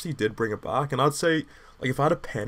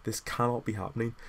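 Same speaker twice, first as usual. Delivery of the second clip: disbelief; 5 dB quieter than usual. Retold or imitated. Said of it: "I was just kinda like".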